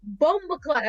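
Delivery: put-on high, slow kid voice; drawn-out childlike exclamation; imitating innocent kids. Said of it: "They'd be like".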